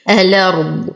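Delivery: الأرض said as "alard", no glottal stop; dropped hamza. Shown as a demonstration. Teacher reciting Warsh style, الأرض without hamza. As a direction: glide from lam straight into a in الأرض. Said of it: "ورش يقوم بحذف الهمزة".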